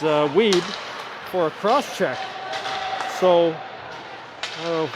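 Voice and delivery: steady live game call; hockey play-by-play. Acted. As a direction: call the action for the stream.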